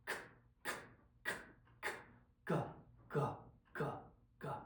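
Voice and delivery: each consonant crisp and separate, with a pause between; slow plosive drill. Shown as a demonstration. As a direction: tap out every plosive slowly and mindfully. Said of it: "Just repeat them slowly".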